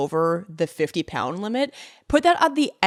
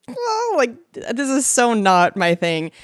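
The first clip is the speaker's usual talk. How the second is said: higher squeaky start of a squeamish protest; squeamish squeal; 4 semitones higher than usual. Retold or imitated. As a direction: squeal it like you can't stand this. Retold squeamish reaction.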